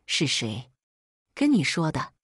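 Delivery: dying mother rasping the question; a hoarse dying mother asking who told her; hoarse, heavy voice. A narrator's reading. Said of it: "声音又哑又沉".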